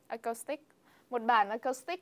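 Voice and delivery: "acoustic" as "ah-cos-tick", rising Vietnamese tone; Vietnamese pronunciation. Retold or imitated. Student shows how people say it in Vietnam, Vietnamese pronunciation. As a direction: Vietnamese loanword reading of "acoustic". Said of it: "in Vietnam they say, like, in Vietnamese".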